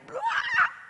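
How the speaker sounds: high short wail, acted out; mock tantrum wail. Speaker shows audience her bedroom tantrum, mock wail. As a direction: imitate flopping down in a tantrum. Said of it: "have a complete adult tantrum".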